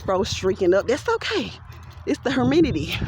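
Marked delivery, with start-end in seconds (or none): 2.0-3.0 imitating her humidity; her way of saying it. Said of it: "that's how she would say it".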